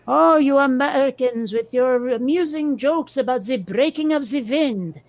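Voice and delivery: a hint of a haughty French accent; lightly mock French taunter. Joking to a friend about Americans, light mock French accent. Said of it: "That's the French taunter".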